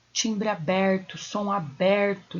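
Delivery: "aberto" drawn out slowly with an open E; open vowel timbre. Shown as a demonstration. Teacher explains the acute accent, open vowel timbre. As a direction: stretch "aberto", opening the stressed E. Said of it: "o som é aberto".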